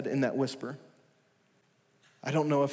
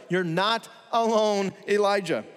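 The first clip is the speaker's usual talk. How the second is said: rising reassurance; 5 semitones higher, 4 dB louder than usual. Acted. Preacher's climax of reassurance.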